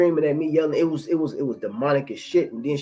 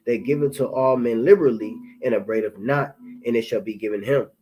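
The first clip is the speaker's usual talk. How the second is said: measured, solemn verse reading; scripture reading. Real, not acted. Preacher reading James to brothers, solemn. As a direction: read the verse like from the pulpit.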